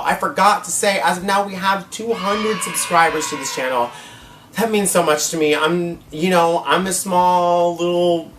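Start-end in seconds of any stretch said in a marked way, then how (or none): 1.0-3.9 excited announcement. Real, not acted. Vlogger announces two hundred subscribers, excited shout. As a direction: blurt out the big news to the viewers. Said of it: "Oh my God, y'all".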